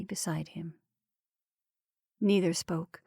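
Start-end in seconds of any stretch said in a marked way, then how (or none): 0.0-0.7 whispered. A narrator's reading. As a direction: fade to a breath. Silent apathetic return.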